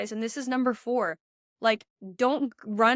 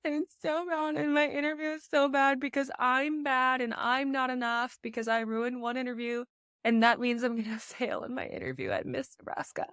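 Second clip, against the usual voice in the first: pitched up, whiny voice of a contestant beating herself up; mock the panicked inner critic, higher and plaintive; spiraling self-critic; 4 semitones higher than usual. Coach imitating a contestant's harsh inner voice, higher and whiny. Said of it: "But it's not".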